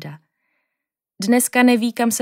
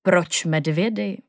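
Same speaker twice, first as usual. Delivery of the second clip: put-on the old teacher puzzled by the bear question, slow; 3 dB quieter, slower than usual. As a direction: shake your head in gentle puzzlement. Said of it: "zavrtěl udiveně hlavou".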